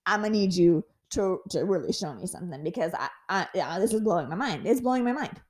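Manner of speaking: exasperated plea to God; indignant prayer. Retold or imitated. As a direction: demand God explain. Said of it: "my times where I said".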